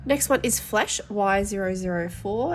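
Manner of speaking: blocked nose from hay fever; nasally, stuffed-up speech. Real, not acted. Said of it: "sorry about my nasally voice".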